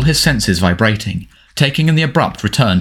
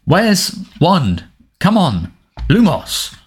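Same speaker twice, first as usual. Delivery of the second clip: frantic; 8 semitones higher, much slower than usual. Acted. Frantic search in dark.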